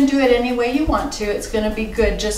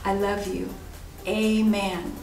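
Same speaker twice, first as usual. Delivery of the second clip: prayer to repeat. Shown as a demonstration. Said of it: "why don't you pray after me".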